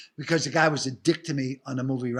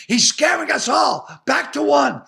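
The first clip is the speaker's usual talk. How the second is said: called out a bit louder, laughing; mock yell; 7 semitones higher, 7 dB louder than usual. Retelling Kevin James calling across the set, a light mock yell. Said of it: "Kevin James yells out".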